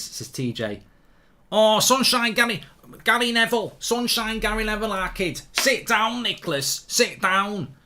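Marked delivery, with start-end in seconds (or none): 1.5-7.8 put-on broad Manc accent, pitched up and punchy; hammed-up Manc accent telling Nicholas to sit down. Viewer asks for best Manc accent, hammed-up Manc voice. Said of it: "in your best Manc accent".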